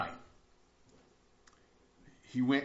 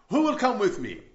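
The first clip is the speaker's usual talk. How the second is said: showman's call; 7 semitones higher, 7 dB louder than usual. Acted. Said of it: "where Blondin asked the crowd".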